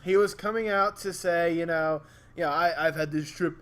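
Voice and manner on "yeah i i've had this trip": lightly imitated Indian accent. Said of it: "Don't do the accent".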